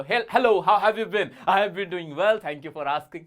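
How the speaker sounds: steady, sure greeting; composed, confident hello; with confidence. Shown as a demonstration. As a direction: greet them like you own the room. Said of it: "with confidence बोलो".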